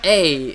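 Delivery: "a" said loud as a long "ay"; stereotyped Canadian "eh". Shown as a demonstration. Showing what people think Canadians say, "a" as a loud "eh". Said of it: "people think we say".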